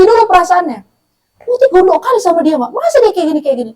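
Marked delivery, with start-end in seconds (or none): 1.5-3.7 retold venting. Acts out venting to her mother.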